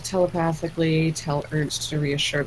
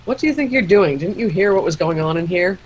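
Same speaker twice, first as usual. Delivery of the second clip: indignant Ernst; 3 semitones higher, 3 dB louder than usual. Acted. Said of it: "you can speak for Ernst".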